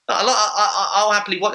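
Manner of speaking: laughing through the words. Real, not acted. Host laughing about watching Arlovski, giggly. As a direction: chuckle while admitting it.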